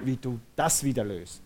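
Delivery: emphasis on "wieder", set apart in the phrase; stress on WIEDER. Shown as a demonstration. Preacher models a trusting prayer to God, stressing "wieder". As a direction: lean on the word "wieder". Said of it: "Betonung auf wieder".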